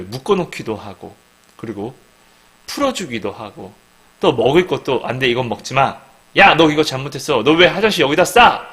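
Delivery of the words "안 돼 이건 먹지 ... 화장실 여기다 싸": louder acted scolding of a naughty dog; scolding a pet. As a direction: tell off the puppy firmly.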